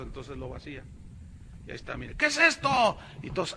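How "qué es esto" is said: high, louder quiz to the crowd; showman question. Retold or imitated. Preacher quizzes the crowd about the glass, high and loud. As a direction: tease the audience.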